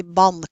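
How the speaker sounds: "bank" with a plain n before k; unassimilated n. Shown as a demonstration. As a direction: say "bank" without the ng sound. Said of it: "has to do with assimilation".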